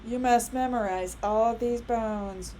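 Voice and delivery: slow, mock-solemn lecturer voice; a hammed-up strict teacher; mock strict professor. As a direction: play the stuffy old professor. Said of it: "I'm not gonna sit there and go".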